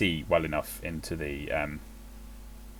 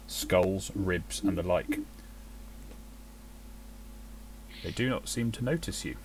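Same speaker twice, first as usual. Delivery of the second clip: scene-setting narrator voice; game master narration. Acted. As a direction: paint the scene for the players. GM describes the fort.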